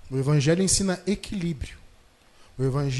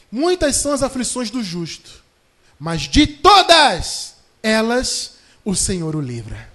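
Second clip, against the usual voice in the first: louder, slowing down toward the promise; fervent scripture proclamation; 8 dB louder, slower than usual. Shown as a demonstration. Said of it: "Olha só a promessa aqui".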